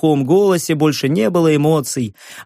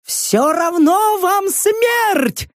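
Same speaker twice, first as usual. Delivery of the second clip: very high, slow, grating croak; inhuman grating voice; much slower than usual. A narrator's reading. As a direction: scrape it out like something not human. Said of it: "проскрежетала ... нечеловеческим голосом". (нечеловеческий скрежет)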